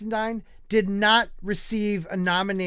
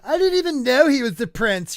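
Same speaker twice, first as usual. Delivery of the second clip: mock quote; 6 semitones higher, 4 dB louder than usual. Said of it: "Like, she tried".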